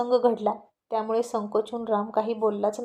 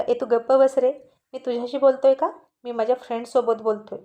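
scornful, louder put-down of a rival; contemptuous; 4 dB louder than usual. Acted. Om scornfully telling Ram to shut up in front of Siya, contemptuous and louder. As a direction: sneer him into silence, loud. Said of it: "तिरस्कारानं म्हणाला".

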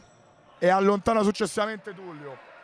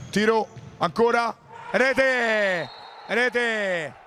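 excited goal call; 2 semitones higher, much slower than usual. Real, not acted. Goal scored in live match.

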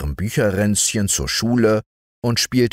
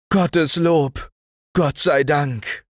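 higher relieved exclamation, slowing at the end; relieved cry; 9 semitones higher, slower than usual. Acted. Family thanking God for the good news, relieved. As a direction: let the relief out. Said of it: "tönte es aus aller Munde".

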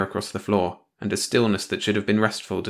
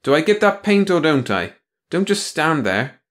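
glaring demand; 8 semitones higher, 4 dB louder than usual. Acted. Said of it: "Tony glared".

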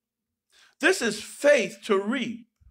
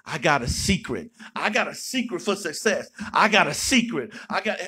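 lower-pitched mocking voice of a YouTube guru boasting about his secret; mock a smug online guru, lower; mock secret-seller; 6 semitones lower than usual. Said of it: "we'll hear everybody's secret".

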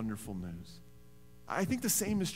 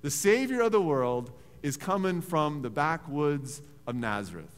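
incredulous; 5 dB louder than usual. Retold or imitated. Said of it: "sitting there thinking".

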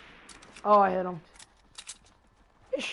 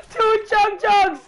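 frat bro; 6 semitones higher, slower than usual. Real, not acted. Hyped over loot.

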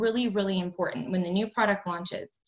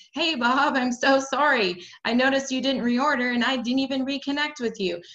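sample apology; 4 semitones higher, 4 dB louder than usual. Shown as a demonstration. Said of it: "Tell Bob".

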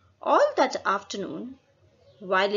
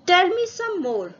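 eager, higher and louder; excited; 8 semitones higher, 5 dB louder than usual. A narrator's reading. Doctor asking parrot for more bird language, excited. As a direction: jump in keen to hear more. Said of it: "all excited".

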